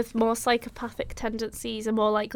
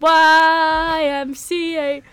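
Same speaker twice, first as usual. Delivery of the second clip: snappy clicking crab; 5 semitones higher, 7 dB louder, much slower than usual. Pretend. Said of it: "stop doing the crab impression".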